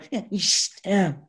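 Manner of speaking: imitating her fake giggle; mock laugh of the girl. Showing how the birthday girl laughed, a mocking giggle. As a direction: do her rude little laugh. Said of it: "she goes like this".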